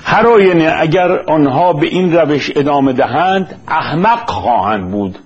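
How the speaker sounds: measured, formal reading of a prepared text; formal lecture-script delivery; formal read-aloud. Acted. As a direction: read it out deliberately in careful literary Persian.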